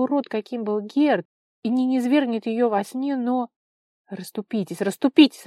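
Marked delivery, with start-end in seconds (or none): 4.8-5.5 much louder and higher, rising at the end; irritated shout. A narrator's reading. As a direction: yell to push through the crowd. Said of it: "раздражённо кричал Лава".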